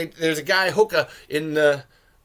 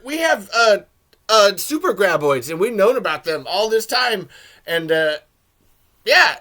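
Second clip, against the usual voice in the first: mocking; 5 dB louder than usual. Mocking the lady's missing exposition.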